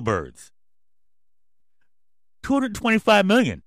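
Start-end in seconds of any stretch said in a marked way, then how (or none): 2.4-3.6 loud, high outraged shout of the number; yelling. Real, not acted. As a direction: bellow the figure in disbelief. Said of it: "Yeah, I'm yelling".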